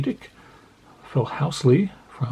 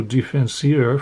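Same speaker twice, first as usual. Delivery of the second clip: Defenseur with a mock French accent; a playful French Defenseur; jokey French accent on Defenseur; slower than usual. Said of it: "My French accent is amazing".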